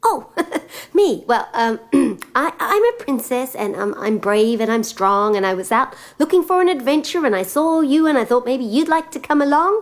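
eager, bashful princess pitching an adventure; lightly voiced princess.

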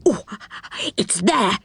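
breathless little burst of excitement; excited storybook character. A narrator's reading. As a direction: announce an exciting discovery. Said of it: "he came back excited".

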